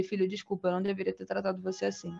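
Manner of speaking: soft apology. Retold or imitated. Apologizing to baby.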